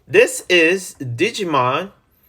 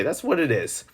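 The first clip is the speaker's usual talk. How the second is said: whispered aside; 7 dB quieter than usual. Real, not acted. Confiding aside.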